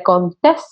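Contés stressed on the final E, con-TÉS; accent on the E. Shown as a demonstration. Guest naming the host's surname, stressing Contés on TÉS. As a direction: land the weight on the last syllable of Contés, TÉS. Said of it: "con acento en la E".

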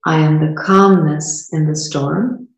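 measured lines with long pauses, left open for repeating; guided meditation. Real, not acted. Host guided through a micro meditation to feel it, guided meditation. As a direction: lead them through it step by step. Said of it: "to do a micro meditation".

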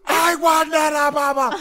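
high, slow, loud wailing; hammed-up child wail; imitating a screaming toddler. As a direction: mimic the tantrum at full pitch. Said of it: "She's like".

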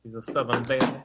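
light Southern belle lilt; Southern accent. Acted. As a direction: echo it in a genteel Southern accent. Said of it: "I give her a Southern accent".

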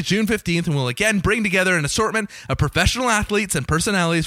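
upbeat event announcement read quickly; promo read. Acted. Host reading the charity gala listing to listeners, upbeat promo read. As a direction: sell the gala like a radio spot.

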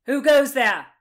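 loud challenging shout. A narrator's reading. Sheriff shouting at intruders in the tunnel, loud. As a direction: bark the challenge across the tunnel. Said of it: "shouted the sheriff".

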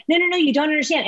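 the same protest rattled off fast; fast insistent protest. Retold or imitated. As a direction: hurry through it like a repeated brush-off. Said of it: "I was literally going".

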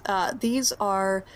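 a hint of a bemused wife, quickening at the end; GM's wife introducing guests, then asking names. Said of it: "And she responds".

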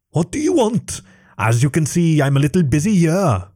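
high, annoyed dragon voice; an impatient dragon; irritated dragon. Acted. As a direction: brush off the intruders, busy.

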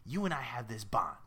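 raspy, conspiratorial New York fish; ominous New Yorker. Acted. Fish sealing a bond with the girl, ominous New York voice. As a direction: draw the kid in with a New York rasp. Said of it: "It sounds ominous again".

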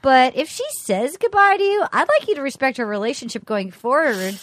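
imitating a calm, measured rival; mock diplomatic composure; cool and unruffled. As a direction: stay cool as a cucumber, lightly acted. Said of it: "cool as a cucumber".

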